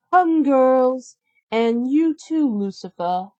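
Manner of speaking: sly cartoon stepmother plotting chores; a hint of a sneering stepmother. Stepmother voiced.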